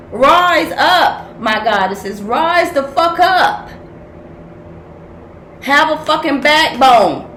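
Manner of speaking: loud rallying call; 1 rallying cry. Real, not acted. Reader rallying her viewers, loud rousing call. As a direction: rouse the listeners to fight.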